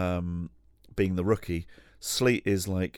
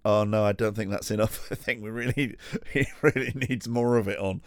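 giggling imitation; 3 semitones higher than usual. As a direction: laugh through the lines as if delighted. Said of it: "he was stood there going".

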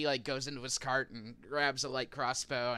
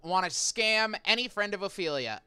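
merchant voice; 6 semitones higher, 5 dB louder than usual. Acted. Merchant voice speaking.

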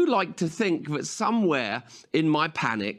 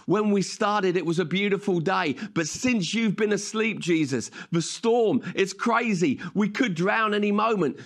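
panicked disciples; 4 semitones higher than usual. Retold or imitated. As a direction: blurt it out as scared sailors in a storm. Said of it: "they're saying".

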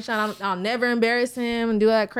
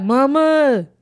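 calling for mama; 8 dB louder than usual. Retold or imitated. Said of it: "So do you be like".

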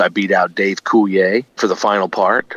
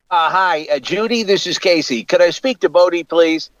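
higher radio-host voice, lightly done; Casey Kasem voice; 6 semitones higher than usual. Retold or imitated. Calling the studio pretending to be Casey Kasem. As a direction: slip into the famous DJ's voice to fool the receptionist. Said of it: "I did him the voice".

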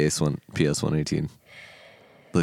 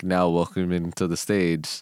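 struggling announcer; 4 dB quieter, much slower than usual. Retold or imitated. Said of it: "it's sitting here struggling".

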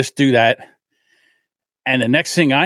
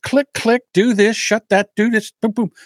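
higher, quick breezy clicks; breezy tech guy; 8 semitones higher than usual. Retold or imitated. Comedian showing how Raj fixed it, higher and breezy. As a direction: rattle it off like it's nothing. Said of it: "He's like".

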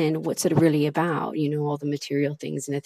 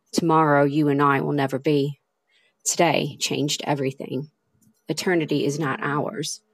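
poem reading. Acted. Podcaster reading her own love poem to listeners, heartfelt recital. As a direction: give each line weight, pausing between them. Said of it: "start off today with a poem".

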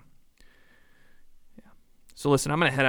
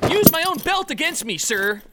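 eager pledge; 3 dB louder than usual. Acted.

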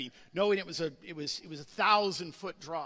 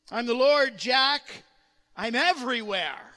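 voice of God; 3 semitones higher, 9 dB louder than usual. Retold or imitated. God answers Jack.

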